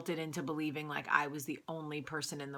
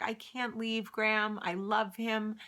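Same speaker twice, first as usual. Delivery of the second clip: higher-pitched replay of a plea; mock-helpless protest, pitched up; retold lovesick protest; 5 semitones higher, slower than usual. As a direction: plead lightly as your younger self. Replays own protest to grandmother.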